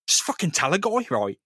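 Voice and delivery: pleading voice breaking high into a cry; 1 desperate yell. Retold or imitated. Son shaking his friend, demanding the truth, voice cracking into a cry. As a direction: shout it at him with a cracking, crying voice.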